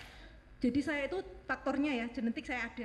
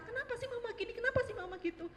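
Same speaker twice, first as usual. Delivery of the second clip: frustrated; 10 semitones higher than usual. Retold or imitated. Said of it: "suara saya udah agak tinggi".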